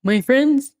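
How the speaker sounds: pinched-nose voice; plugging nose. Retold or imitated. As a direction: say it with a held nose. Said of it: "plugging his nose".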